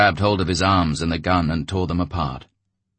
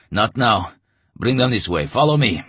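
deep bass voice; 5 semitones higher, 4 dB louder than usual. Acted. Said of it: "Letyaga's deep bass".

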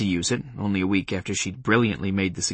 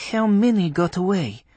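put-on Polish accent; 9 semitones higher than usual. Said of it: "in a Polish accent".

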